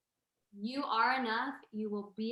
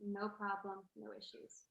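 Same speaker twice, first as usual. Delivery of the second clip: soft "no problem"; 7 dB quieter than usual. Shown as a demonstration. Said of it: "everything's good".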